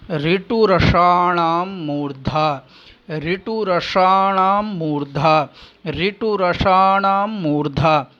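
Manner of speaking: slow, deliberate chant of ऋतुरसाणाम मूर्धा; sutra recitation. Shown as a demonstration. Teacher reciting the Sanskrit rule slowly for students. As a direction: lay out each syllable of the sutra slowly.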